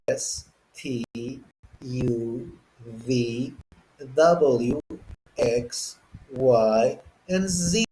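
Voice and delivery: American pronunciation drill, evenly spaced; American accent. Shown as a demonstration. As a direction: recite letters in clear American English. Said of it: "start off saying it the American way".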